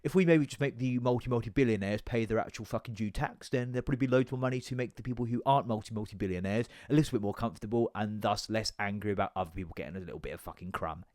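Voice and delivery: lightly voiced economist ranting about billionaires; Gary Stevenson impression. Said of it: "I'll get the weird mouth going".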